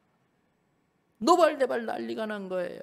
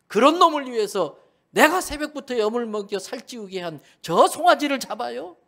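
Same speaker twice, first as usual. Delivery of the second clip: loud, raised, incredulous protest; how dare they kill my calf for him; indignant outburst; 4 semitones higher, 5 dB louder than usual. Acted. Elder son rages at the feast. (분개한 큰아들의 높고 큰 항의)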